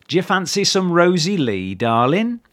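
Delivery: a cheery Cockney offering tea. Retold or imitated. Londoner offering tea to darling, light mock Cockney. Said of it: "So they say things like".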